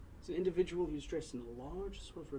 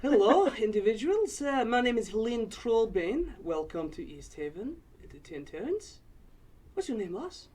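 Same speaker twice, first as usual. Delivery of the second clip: higher and louder dwarf voice; old dwarf woman; 5 semitones higher, 8 dB louder than usual. Acted. Borla asking about the companions, hearty dwarf voice.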